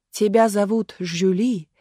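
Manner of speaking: slow, measured declamation; stage questioning. A narrator's reading. Marat echoing the girl before the crowd, solemnly declaiming. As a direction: repeat it slowly, with mild theatrical weight. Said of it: "вопросил Марат".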